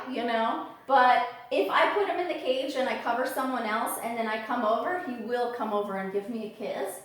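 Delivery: usual speaking voice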